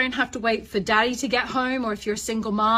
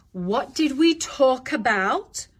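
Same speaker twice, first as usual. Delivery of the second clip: slow, firm prompting question; measured question lifting at the end; stern parent; 3 semitones higher, 4 dB louder, slower than usual. Shown as a demonstration. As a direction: make the child recall the rule. Parent questioning a misbehaving child.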